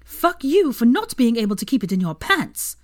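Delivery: high, loud furious accusation. A narrator's reading. Hermione raging at her cheating ex in the pub. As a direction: jab each word at him.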